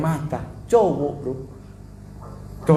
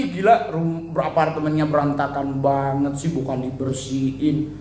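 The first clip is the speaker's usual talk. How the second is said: Jakarta gossip voice; 2 semitones lower than usual. Retold or imitated. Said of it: "kon dia bagi".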